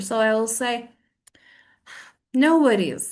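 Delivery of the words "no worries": cold, curt acceptance. Shown as a demonstration. Answering someone who hit my shoulder, cold. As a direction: sound upset under polite words. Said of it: "This cold "no worries".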